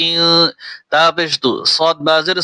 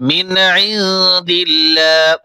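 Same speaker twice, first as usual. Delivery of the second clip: slow melodic recitation; measured Quranic chant; much slower than usual. Acted. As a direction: draw the phrase out as in tilawa. Recites verse slowly.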